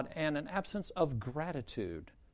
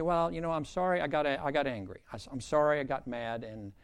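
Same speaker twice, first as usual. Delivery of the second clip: sheepish, winding down lower and softer; apology that trails lower; mild apology; 3 semitones lower, 3 dB quieter than usual. Acted. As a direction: voice someone half-heartedly saying sorry. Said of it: "they come back and say".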